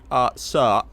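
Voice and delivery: tentative German officer impression; attempted German accent. Shown as a demonstration. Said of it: "it's probably more like".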